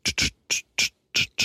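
unvoiced spraying tsch noises; spray sound. Friend imitating a spray bottle for the hosts. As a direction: mimic a spray bottle hissing.

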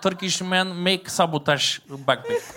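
mock foreign craftsman blaming saboteurs; Bulgarian bagpipe maker. Player excuses untuned bagpipe as the maker, accented English.

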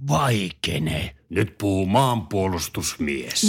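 stern patriot man. Acted. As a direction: growl like a hammed-up patriot. Gruff patriot character in ad. (esitetty jäyhä maanpuolustusmies)

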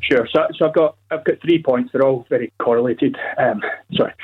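out of breath from the stairs; winded, catching breath between words; gasping for air. Real, not acted. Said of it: "well, a bit out of breath, just ran up the stairs there".

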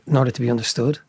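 slowed-down, careful delivery. Real, not acted. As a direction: take it slowly so you're understood. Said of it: "I'm speaking a lot slower right now".

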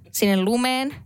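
usual speaking voice

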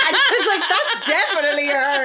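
laughing retelling. Real, not acted. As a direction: tell it while cracking up. Telling funny story amid laughter.

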